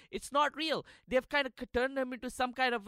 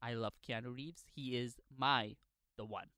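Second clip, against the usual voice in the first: much softer and lower, like a swooning secret; hushed confession; 8 semitones lower, 7 dB quieter than usual. Acted. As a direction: confess your crush in a dreamy hush.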